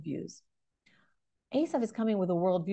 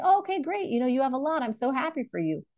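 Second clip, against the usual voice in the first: mock cheerful reply; 4 semitones higher than usual. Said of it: "He doesn't say".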